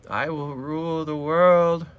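growly tiny tyrant voice; cat villain voice. Pretend. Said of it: "She's like".

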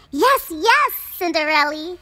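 high, loud squeaky agreement; eager mice. A narrator's reading. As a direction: chirp yes like little mice. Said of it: "said the mice".

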